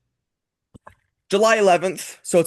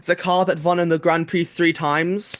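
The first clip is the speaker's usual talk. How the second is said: put-on German accent. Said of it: "Oh, you're gonna do it that way".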